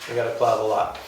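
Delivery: half-playful warning to move the car; mock wake-up call. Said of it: "'cause we'll say".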